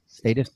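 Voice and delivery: status as STAY-tus, questioning; long a. Shown as a demonstration. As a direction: try status with a "stay" vowel. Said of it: "I would say status".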